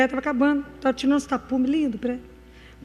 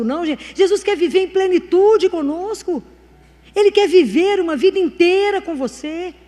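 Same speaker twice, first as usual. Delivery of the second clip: raised, driving sermon voice; fervent preaching; 3 semitones higher than usual. Real, not acted. Preacher telling people Jesus wants a whole life with them, fervent. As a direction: press each point home to the congregation.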